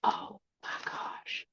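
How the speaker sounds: breathless whisper of delight; awed whisper. Real, not acted. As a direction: barely breathe the words, overcome. Awed by figurine in box.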